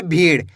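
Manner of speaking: भीड़ with a flapped final ड़; flapped ड़ ending. Shown as a demonstration. Teacher repeats the correct reading for students, flapped ड़ in भीड़. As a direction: end भीड़ on a quick tongue flap, not a hard d. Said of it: "कैसे पढ़ेंगे?".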